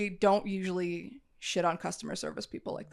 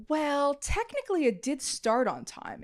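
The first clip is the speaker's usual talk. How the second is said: lightly voiced evasive manager, pitched up; a hint of pedantic customer service; mock manager excuse. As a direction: imitate a hedging employee.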